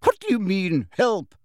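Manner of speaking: high, tight, affronted question; strangled indignation; constricted voice. A narrator's reading. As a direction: challenge it through a tightened throat. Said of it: "in a constricted voice".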